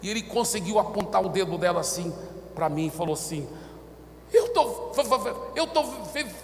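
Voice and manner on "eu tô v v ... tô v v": high-pitched stuttering, stuck on the first sound; imitated terrified stammer. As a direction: act too frightened to get words out. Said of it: "ele não conseguia nem falar". (gaguejando de pavor)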